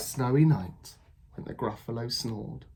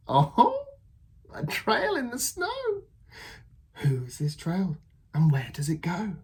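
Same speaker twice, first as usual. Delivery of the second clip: high, thrilled little discovery; excited Gruffalo child; 7 semitones higher than usual. Acted. Child discovering a trail, high and thrilled. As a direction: gasp at the find.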